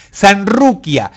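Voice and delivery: Sanruquia read slowly, each syllable drawn out; sounding out slowly. Shown as a demonstration. Reading a viewer's name aloud, slowly. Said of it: "Soy mujer".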